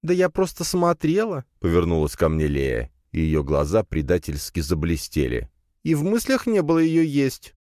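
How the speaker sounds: squeaky spider feigning innocence. Acted. Spider denies hunger. (высоким голоском, невинно)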